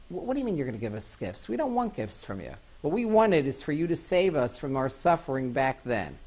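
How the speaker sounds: rushed, mildly indignant protest, pitch jumping; mild retold indignation. Orphaned children react to the promised gifts, mildly indignant. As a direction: retell angry children refusing gifts, without shouting. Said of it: "incredibly angry".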